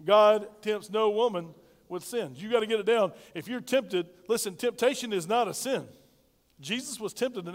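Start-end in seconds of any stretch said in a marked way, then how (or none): 0.0-2.3 slow repeat-after-me. Shown as a demonstration. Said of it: "Say it with me, ladies".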